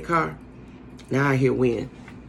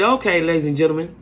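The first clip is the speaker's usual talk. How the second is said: lightly voiced smooth pilot; a hint of a polite captain announcing. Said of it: "in his very nice pilot voice".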